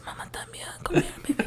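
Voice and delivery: seductive whisper; sweet nothings. Shown as a demonstration. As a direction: breathe it close to her ear. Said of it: "somebody whispers sweet nothings".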